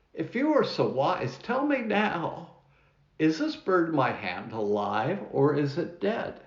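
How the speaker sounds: mildly acted challenge; challenging. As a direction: put the question as a taunting test. Student challenges master in story.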